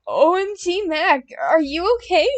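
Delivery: high, loud worried cry; high-pitched worried outburst. A narrator's reading. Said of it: "Snowman cried".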